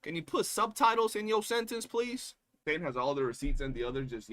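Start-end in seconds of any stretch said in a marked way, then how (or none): 0.0-2.3 mock polite plea. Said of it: "I'm over here like".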